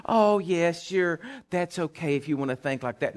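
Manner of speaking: placating. Retold or imitated. Preacher mimicking those who make everybody happy, placating. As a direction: humour them with easy agreement.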